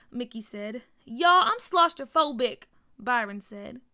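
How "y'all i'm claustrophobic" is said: high, loud and anxious; panicky confession. A narrator's reading. Byron to friends inside the box, panicky. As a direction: blurt it out in a panic.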